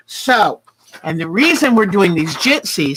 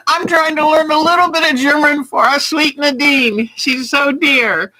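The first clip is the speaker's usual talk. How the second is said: sweet retold reply; 7 semitones higher than usual. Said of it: "I said".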